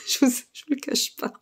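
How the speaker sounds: laughing whisper, worn out; breathy tired chuckle while admitting fatigue. Real, not acted. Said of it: "je suis crevée ce soir".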